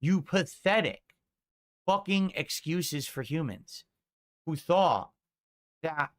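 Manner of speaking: slow, emphatic repeated insult; real contempt. Real, not acted. Streamer repeating his insult to detractors, deliberate and scornful. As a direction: drive each phrase home with scorn, pausing between.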